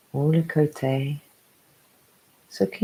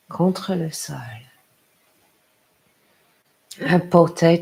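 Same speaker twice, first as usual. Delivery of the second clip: guided meditation. Acted. Yoga teacher to a parent settling down, guided meditation. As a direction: lead them gently into rest, unhurried.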